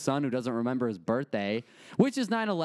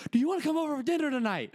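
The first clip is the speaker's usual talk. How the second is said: very high, fast, sing-song invitation; sweet mom switch; 13 semitones higher, faster than usual. Retold or imitated. Mom inviting her son to dinner after the fight, sweet and high. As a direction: flip instantly to sugary mom. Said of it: "and then she'll calm down".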